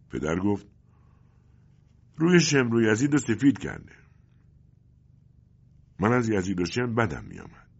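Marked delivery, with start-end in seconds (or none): 2.2-3.9 father. Acted. Father jokes.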